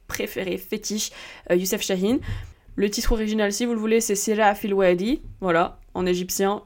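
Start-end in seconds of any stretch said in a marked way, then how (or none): 4.2-5.2 "Sira Fil Wadi" said in a learner's Egyptian Arabic accent, not a native one; clumsy Egyptian accent. Shown as a demonstration. Podcaster giving the film's original Egyptian title, in a clumsy Egyptian accent. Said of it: "Mon accent égyptien est complètement foireux".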